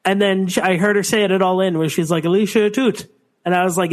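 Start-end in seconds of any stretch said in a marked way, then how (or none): 2.2-3.1 put-on Canadian accent. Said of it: "It's very Canadian".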